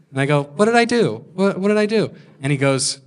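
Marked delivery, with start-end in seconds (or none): 0.4-2.1 baffled protest. Retold or imitated. Baffled reply to boom guy's accusation.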